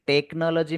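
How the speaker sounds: "टेक्नोलॉजी" with CH said as K; hard K sound. Shown as a demonstration. Teacher showing learners how CH sounds in technology, "टेक्नोलॉजी" with K. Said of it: "में क बोला जाएगा".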